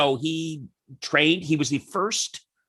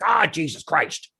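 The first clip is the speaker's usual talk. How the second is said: slow, fed-up groan of words; a dad dragged out of the house, weary; weary exasperation. Retold or imitated. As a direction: sigh it out like it's a chore. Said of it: "he's like".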